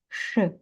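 «ш» as a hard hushing sh; short demonstration of hard sh; retroflex sh. Shown as a demonstration. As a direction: isolate the hard «ш» sound. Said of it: "вимовляємо це як".

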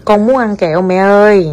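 very slow, each word laid out; feed the phrase word by word for a child to copy; slow dictation. Shown as a demonstration. Mother dictates a polite request, very slowly. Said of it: "models the sentence for child".

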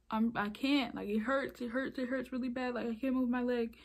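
mildly acting out hurt protest, words repeating; pained pleading. Injured teen telling the woman it hurts, mild pleading.

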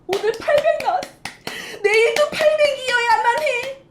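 high-pitched, eager mock hope; eager mom. Mom gloating over a big feeding day, high excited voice. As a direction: sound like a mom clinging to a record.

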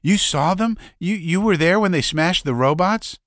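high, wide-eyed disbelief; amazed. Acted. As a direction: ask it in awe. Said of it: "The youth's eyes bulged".

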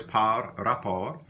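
par rapport said slowly, as two words; slow and separated. Shown as a demonstration. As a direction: split par rapport clearly for learners. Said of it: "Par rapport is like two words".

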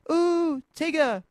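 very high, drawn-out ooh of delight; squealed. A narrator's reading. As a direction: squeal it like a thrilled child. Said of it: "Roo squealed again".

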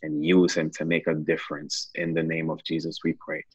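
earnest, steady prayer voice. Acted. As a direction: pray it out with fervour. Leads a closing prayer.

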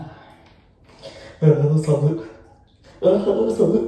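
groaning from the cold; drawn-out cold groan; in ice cold water. Real, not acted. (寒さにうめく)

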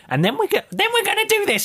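very high put-on teacher voice; squeaky mock schoolteacher; horrible teacher. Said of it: "She, she would".

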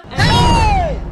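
very high, loud hey; furious shout. Acted. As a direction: bark to freeze him. Mother shouting at child.

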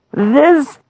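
high, loud scornful disbelief; scandalised giant, voice way up; incredulous giant. Acted. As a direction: exclaim in outrage at a tiny opponent. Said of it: "He said".

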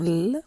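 L held as a long singing "lll"; sustained sound. Shown as a demonstration. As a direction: draw out the sound of L. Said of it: "je fais tout chanter". (faire chanter le son « L » en le prolongeant)

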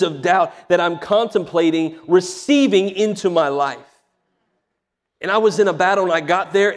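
urgent, emphatic sermon storytelling; impassioned preaching. Real, not acted. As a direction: preach the battle with building intensity.

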